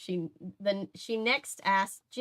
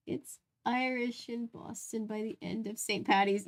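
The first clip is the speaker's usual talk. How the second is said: Boston accent; 2 semitones higher, 3 dB quieter than usual. Shown as a demonstration. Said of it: "comical Irish accent".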